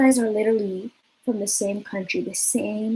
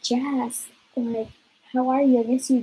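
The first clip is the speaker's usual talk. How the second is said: higher, sugary fake-sweet greeting; butter him up, teasing him on purpose; mock sweet; 4 semitones higher than usual. Call Jazz and piss him off.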